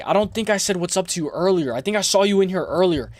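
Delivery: normal talking voice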